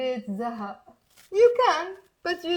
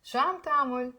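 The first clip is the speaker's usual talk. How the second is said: quicker, connected teaching demo; faster; much faster than usual. Shown as a demonstration. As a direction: run the phrase together faster. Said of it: "Now faster".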